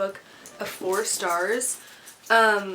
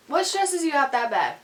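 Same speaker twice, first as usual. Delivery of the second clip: high, louder pet-talk voice; 7 semitones higher, 4 dB louder than usual. Real, not acted. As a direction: ask the dog in a squeaky coo. Repeats the question to dog.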